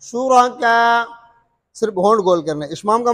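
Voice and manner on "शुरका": शुरका with the final आ kept shorter; third length, qasr. Shown as a demonstration. Teacher showing the third option, short madd. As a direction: keep the last vowel of शुरका brief. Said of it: "तीसरा क्या है".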